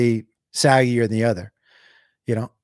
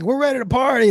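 perky voice; 8 semitones higher, faster than usual. Retold or imitated. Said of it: "one was like".

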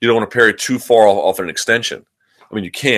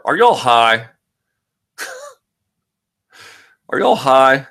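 mock stoner voice; 5 semitones higher, slower than usual. Mock disbelief at fan question.

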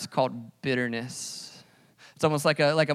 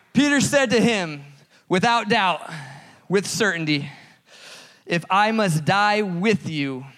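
laughing; 5 semitones higher, 5 dB louder than usual. Real, not acted.

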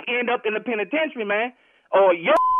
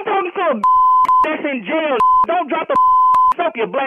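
heated, higher-pitched comeback; angry taunt; 5 semitones higher, 6 dB louder than usual. Real, not acted. Husband taunts the man in jail, angry. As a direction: throw the insult back hard. Husband insults caller back.

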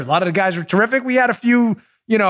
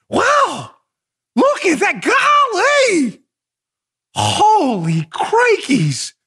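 high, hammed-up gee-whiz gasps; drawn-out mock wonder, ending in a slow "holy crikeys"; mock astonishment; 8 semitones higher, much slower than usual. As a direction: act like a cartoon kid amazed at nothing. Mocking the FBI's surprise.

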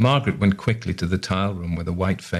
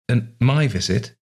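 smiling; 5 semitones higher, 4 dB louder than usual. A narrator's reading.

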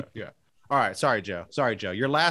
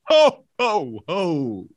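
belly-laugh like Santa Claus; much slower than usual. Acted. Roasting players in a Santa voice, ho ho ho.

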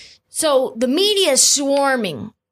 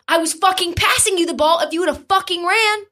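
mock angry Draymond; 8 semitones higher than usual. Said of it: "Draymond Green goes".

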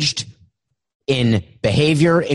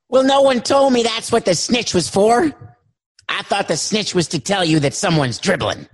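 high whiny caller; 4 semitones higher than usual. Acted. Caller whining.

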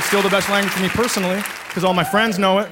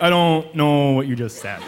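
lower, lost and baffled; dazed confusion; 6 semitones lower than usual. Retold or imitated. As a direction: mumble it like you're way out of your depth. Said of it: "You're just like".

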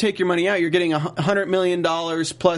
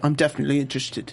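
eager Paolo; 3 semitones lower, faster than usual. Retold or imitated. Paolo agrees to join Jake's bank, laughing. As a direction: rush it out with a giggle. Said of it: "Paolo's like".

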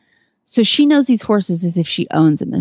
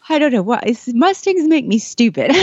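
laughing through tears, higher; teary laugh; 5 semitones higher than usual. Real, not acted. To the host about the Mustang, laughing through real tears. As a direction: laugh at herself while choked up. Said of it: "I didn't think I'd get emotional".

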